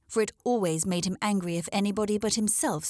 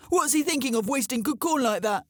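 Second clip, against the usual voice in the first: outraged crow; 5 semitones higher, 4 dB louder than usual. Acted.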